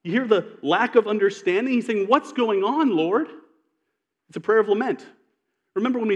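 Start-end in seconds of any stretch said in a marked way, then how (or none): 2.1-3.3 frustrated question. Retold or imitated. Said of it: "You hear the frustration in his voice?".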